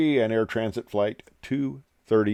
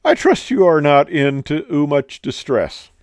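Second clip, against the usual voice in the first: loud, higher British captain voice; hammed-up polite British announcement; British captain accent; 4 semitones higher, 5 dB louder than usual. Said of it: "And then he says".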